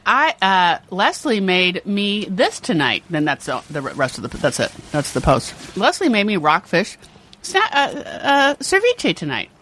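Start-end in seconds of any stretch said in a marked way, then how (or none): 0.1-3.0 drawn-out mock social media post; Greg. Teasing a friend's food posts, slow mock posting voice. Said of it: "Greg's always posting". 5.8-9.5 halting mock food post, higher at the end; Greg. Teasing a friend's food posts, hesitant mock posting voice. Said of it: "Greg's always posting".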